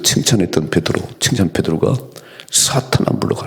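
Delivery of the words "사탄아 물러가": voiceless, forced-out acted rebuke; sharp rebuke. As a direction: drive them off in a breathy burst. Jesus rebuking Peter, acted.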